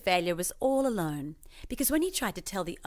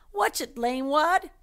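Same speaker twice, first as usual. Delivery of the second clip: high, louder slow snarl; angry cry; 8 semitones higher, 5 dB louder, slower than usual. Acted. Cash Warren telling off the moonwalker, high and annoyed. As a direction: snap it at the clumsy guy. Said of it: "Cash Warren cried".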